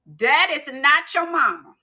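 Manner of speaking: lightly voiced grandmother, firm and emphatic; grandmother's advice. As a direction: lay down the hard truth like a grandmother. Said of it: "this is what my grandmother told me".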